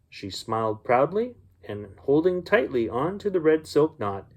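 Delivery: gentle storybook reading voice; story narration. A narrator's reading. Uncle reading a bedtime story to children, storybook voice. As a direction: read it like a bedtime story for kids.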